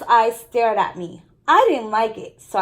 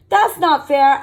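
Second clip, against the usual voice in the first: put-on louder, indignant child; child protesting Dad taking dumplings; protesting kid; 4 semitones higher, 7 dB louder than usual. A narrator's reading. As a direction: cry out at the unfairness. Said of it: "I said".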